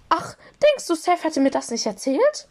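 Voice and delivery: high squeaky little voice; Flitty. A narrator's reading. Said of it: "entschuldigte er sich quiekend".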